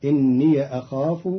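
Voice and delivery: إني as inniya before أخاف; fatha on the ya. Shown as a demonstration. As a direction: end إني on a short ya, then أخاف. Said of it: "بفتح الياء عند قالون".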